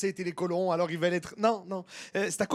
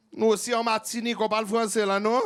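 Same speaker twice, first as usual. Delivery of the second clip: put-on Martinican accent; 3 dB louder than usual. Impersonates a Martinican speaker.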